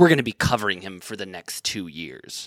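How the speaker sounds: low, soft, disgusted, tongue-in-cheek tone. Recalling sitting next to Dana Bash, speaker quotes her: mock-disgusted Dana Bash. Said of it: "she goes in like a disgusted way".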